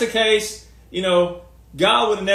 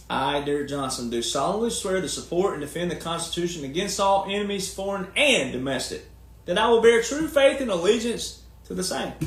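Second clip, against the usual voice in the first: formal oath recitation. Acted. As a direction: recite a sworn oath in measured phrases.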